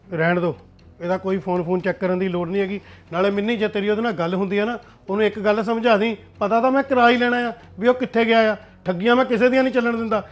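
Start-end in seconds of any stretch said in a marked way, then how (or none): 6.4-10.2 loud, rising threats, voice getting louder; angry threat. Acted. Son vows to mother he'll track down the cheat, loud and angry. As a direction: bark out that nobody cheats him.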